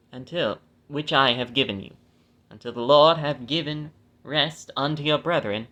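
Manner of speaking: measured, phrase-by-phrase Bible reading; scripture reading. Acted. Reading the law's land grants to listeners, measured scripture reading. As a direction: read the verse out deliberately, stressing key names.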